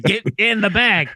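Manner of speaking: high sing-song coaxing, luring birds; squeaky lure. Retold or imitated. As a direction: coax the pigeons in a high voice. Coaxing pigeons into a bag.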